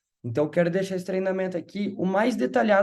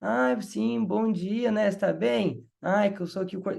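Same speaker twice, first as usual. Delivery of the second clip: lightly put-on friendly lilt, a bit raised at the start; mirroring mother's tone. Shown as a demonstration. Coordinator mirroring a friendly mother on the phone, gently sing-song. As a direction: echo a chatty mum's greeting. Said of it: "Aí você vai nessa mesma pegada".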